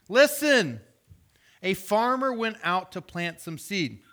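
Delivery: lifted reading of a parable; scripture reading. Acted. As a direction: read it with care and weight. Jesus telling the parable.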